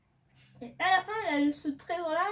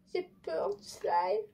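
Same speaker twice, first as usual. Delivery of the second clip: slow, higher, small scared voice; scared admission; 4 semitones higher, slower than usual. Pretend. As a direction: confess the fear, drawn out. Admits fear of slime.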